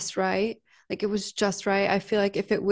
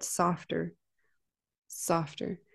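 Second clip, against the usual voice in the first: inner voice of intuition; 2 semitones lower, 7 dB quieter, slower than usual. Retold or imitated. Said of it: "I heard very loudly this intuition that said".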